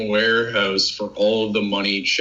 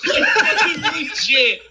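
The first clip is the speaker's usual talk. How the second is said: laughing; slower than usual. Real, not acted. Laughing at the memory.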